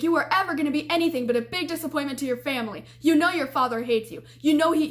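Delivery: half-hearted imitation of a furious tormentor; retold scream. A girl retelling her night attacker's mild mock yell. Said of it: "She's literally screaming all of these things at me".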